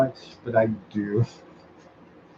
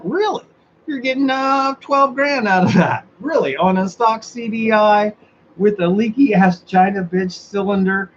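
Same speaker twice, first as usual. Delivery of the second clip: high, mock-amazed questioning, much higher; sarcastic disbelief; 5 semitones higher than usual. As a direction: play along with the lie, fake astonishment. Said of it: "I'm being sarcastic".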